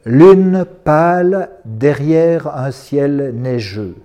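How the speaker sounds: very slow, projected poetry line; poem, first reading. Acted. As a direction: recite it out to the room, drawing out each word. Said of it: "je vais les dire deux fois". (première lecture du poème, lente et projetée)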